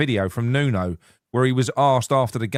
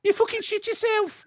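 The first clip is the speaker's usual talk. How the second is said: a much higher, hammed-up Indian accent; exaggerated Indian accent. Redoing the quote for a co-host who mocked it, high Indian accent. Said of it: "Is that better?".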